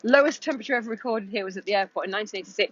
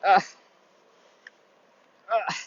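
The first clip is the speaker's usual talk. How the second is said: blowing on cold hands. Real, not acted. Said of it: "my fingers are freezing".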